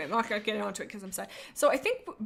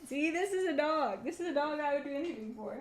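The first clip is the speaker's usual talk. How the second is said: doting pet talk; 5 semitones higher than usual. Real, not acted. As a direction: gush over the dog. Doting on her dog.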